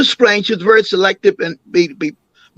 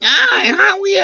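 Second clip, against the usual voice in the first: much higher, bright, sugary greeting; sweet tone. Retold or imitated. Grandmother greeting a white visitor, sugary high greeting. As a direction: lift the voice way up to sound charming. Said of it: "gave another tone".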